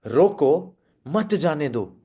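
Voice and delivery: slow "रोको", pause, weighty "मत जाने दो"; "मत" stressed and joined to "जाने दो". Shown as a demonstration. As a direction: lean hard on मत after a break. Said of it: "मत पे ज्यादा जोर लगाया यहाँ पे".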